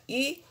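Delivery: "i-a-to" said as three separate syllables, i, a, to; "i-a-to" spelt out syllable by syllable; syllables split. Shown as a demonstration. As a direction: separate "i-a-to" slowly for students. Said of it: "na separação fica".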